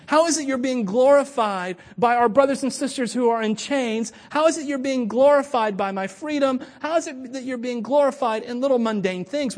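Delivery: earnest prayer, lifting each question to God; spoken prayer. Acted. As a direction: pray it out, question after question. Prays aloud mid-sermon.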